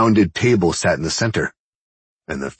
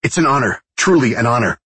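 starstruck; 6 semitones higher, 5 dB louder than usual. A narrator's reading. Starstruck young escort gushing.

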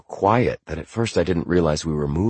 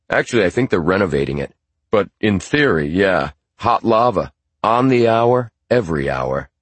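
dad's voice; 2 semitones higher, 5 dB louder than usual. Acted. Dad answers about volcano.

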